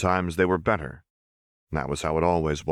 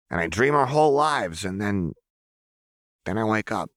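put-on higher, lighter voice of a strange young girl; 4 semitones higher than usual. Narrator voicing Jinx, insistent young girl. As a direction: voice the girl insisting she knows her.

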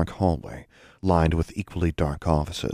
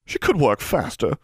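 put-on high, creaky old crone calling out; 9 semitones higher than usual. A narrator's reading. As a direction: call into the dark like an old crone. Old portrait voiced again.

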